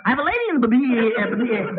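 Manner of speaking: fast, high stuttered announcing; stuttering. Acted. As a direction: rush it and stall on b-.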